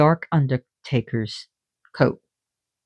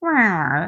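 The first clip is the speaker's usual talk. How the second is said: cat meow; 3 semitones higher than usual. Retold or imitated. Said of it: "I would make".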